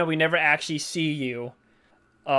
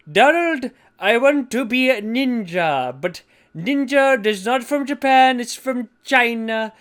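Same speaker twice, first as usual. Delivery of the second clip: higher, louder mocking quote; mock Jennifer; 8 semitones higher, 6 dB louder than usual. Trump quoting Jennifer wanting to be ninja, mocking. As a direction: squeak out her ninja line. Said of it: "she's just like".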